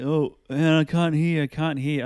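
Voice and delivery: loud, high shout into phone; yelling over music. Retold or imitated. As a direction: shout over party noise.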